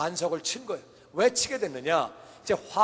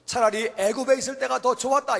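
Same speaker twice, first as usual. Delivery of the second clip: complaining; 5 semitones higher, 4 dB louder than usual. Acted. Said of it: "원망했어요".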